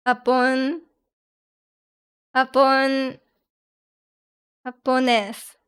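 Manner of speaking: slow, careful "Japon... Japones", J said as H; practising Spanish pronunciation. Shown as a demonstration. Learner trying the Spanish word for Japanese, careful pronunciation. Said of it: "Accent on the ne".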